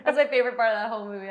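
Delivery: loud, fast, excited gush; excited outburst. Real, not acted. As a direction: blurt it out with delight.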